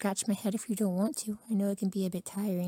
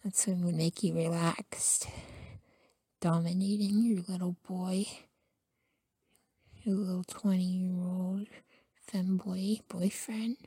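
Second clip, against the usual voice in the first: whisper; 2 semitones lower than usual. Acted. Boyfriend confides to partner in a close whisper. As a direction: hush every word as a secret.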